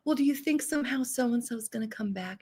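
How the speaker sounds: hushed plea for a character's return; whispered hopeful question. Retold or imitated. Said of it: "I'm always like".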